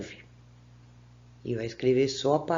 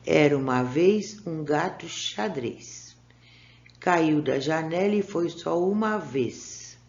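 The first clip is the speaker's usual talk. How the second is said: reading a poem aloud. Shown as a demonstration. Teacher reads the poem to her pupils, lilting. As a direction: read the little rhyme to the children, lilting. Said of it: "Vamos ler, então".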